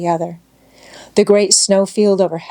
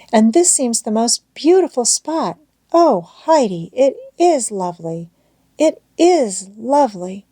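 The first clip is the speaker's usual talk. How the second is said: mild, lightly voiced girlish delight; 4 semitones higher than usual. A narrator's reading. Clara thrilled by the mountain view, mild delight. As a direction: gently gush over the view. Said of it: "she cried, looking round her with delight".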